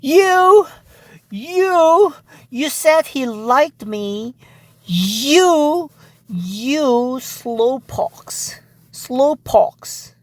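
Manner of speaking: mock winded scolding in fragments; acted out of breath. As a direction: struggle to get the words out, winded. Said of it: "she was entering out of breath".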